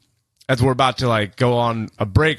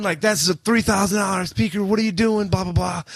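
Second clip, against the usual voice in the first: high-pitched retold rant; pitched-up mock outrage; mock angry yelling; 8 semitones higher than usual. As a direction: imitate the singer going off on a drunk guy. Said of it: "starts going off on him".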